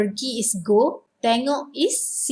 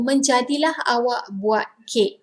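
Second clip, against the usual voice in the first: impressed Menjadilah awak buat kek, stress on menjadilah; praising a friend's first cake. Shown as a demonstration. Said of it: "either surprise or impressed".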